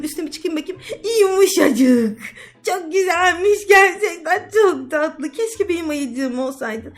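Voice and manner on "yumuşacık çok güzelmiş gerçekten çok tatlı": delighted. Acted. Hugging giant teddy.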